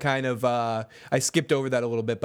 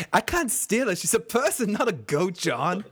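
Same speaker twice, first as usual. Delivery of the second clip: voicing Sam; 5 semitones higher than usual.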